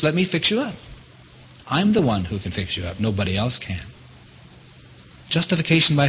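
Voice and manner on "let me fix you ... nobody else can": softer, gentle reassurance; tender voice of Jesus. Retold or imitated. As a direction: offer it softly, like a loving promise. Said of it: "He says".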